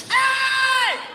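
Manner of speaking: put-on high, loud drunken hey; drunk mirror guy. Drunk guy greets himself in the mirror, high hey. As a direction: greet your reflection like an old friend.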